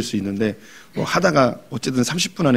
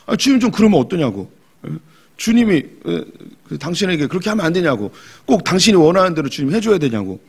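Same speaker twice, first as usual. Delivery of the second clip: bold complaint to God; 3 semitones higher than usual. Retold or imitated. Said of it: "엘리후가 하는 말처럼 그런 말이 막 끓어오를 때가 있어요".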